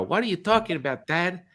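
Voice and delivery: imitating incredulous children; puzzled kids. Voicing his puzzled kids.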